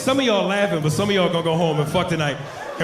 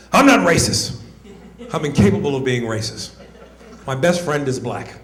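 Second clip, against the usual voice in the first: white person denying; 4 semitones lower than usual. Acted. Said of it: "white people, y'all are the first".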